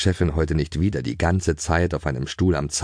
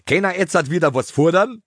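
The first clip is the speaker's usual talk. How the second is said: eager pony question; 11 semitones higher, 4 dB louder than usual. A narrator's reading. Pony talks on, high voice.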